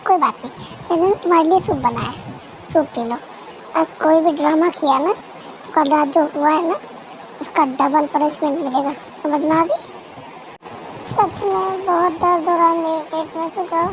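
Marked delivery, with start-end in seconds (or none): 0.1-9.8 cold threat. Acted. Husband threatens wife over soup.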